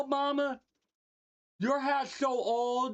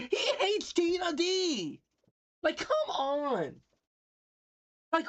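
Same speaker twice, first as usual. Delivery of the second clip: outraged disbelief; 4 semitones higher than usual. Real, not acted. Outraged at the message he read.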